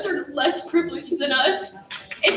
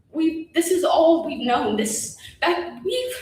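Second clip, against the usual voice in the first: holding back sobs. Real, not acted. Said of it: "I'm trying not to cry".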